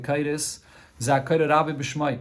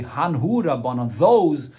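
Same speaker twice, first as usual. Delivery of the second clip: "Hanhu Rabbanan" said slowly, then "those" louder and firmly; respectful Hanhu; 6 dB louder, slower than usual. Shown as a demonstration. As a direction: refer to the sages with deference. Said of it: "is more honorable".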